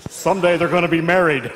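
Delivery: lightly voiced God, amused. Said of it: "And God's up in heaven going".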